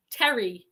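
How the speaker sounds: Terry repeated as TEH-ree; Terry, short and falling; Terry pronunciation. Shown as a demonstration. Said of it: "is pronounced Terry".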